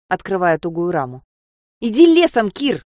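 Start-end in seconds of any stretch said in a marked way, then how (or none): 1.8-2.8 much higher and louder, a furious shout; scared girl furiously yelling at Kir on the roof. Acted. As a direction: snap it at him in a rage. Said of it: "снова заорала я в бешенстве".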